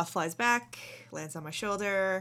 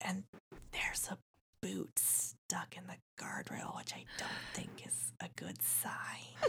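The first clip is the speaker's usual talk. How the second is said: barely there, very quiet, hushed whisper; 11 dB quieter than usual. Voicing a character speaking to Navarre and Rose: whispering. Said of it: "she kind of whispers".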